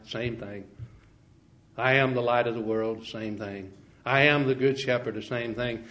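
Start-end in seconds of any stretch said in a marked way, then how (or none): 1.8-3.1 I am the light of the world, with the I leaned on; emphatic I; stress on I. Shown as a demonstration. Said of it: "The emphasis, brethren, is on the I". 4.1-5.1 I am the good shepherd, with the I leaned on; emphatic I; stress on I. Shown as a demonstration. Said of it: "The emphasis, brethren, is on the I".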